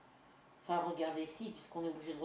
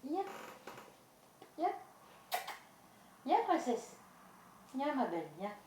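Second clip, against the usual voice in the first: pet talk; 7 semitones higher than usual. Real, not acted. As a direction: coo sweetly at a little pet. Calling her pet sweetly.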